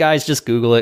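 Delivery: loud, sarcastic brush-off. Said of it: "I'm being sarcastic".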